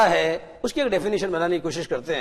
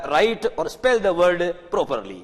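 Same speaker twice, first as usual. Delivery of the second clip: slow emphatic instruction; 2 semitones higher, 5 dB louder, much slower than usual. Shown as a demonstration. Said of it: "teacher stresses key words".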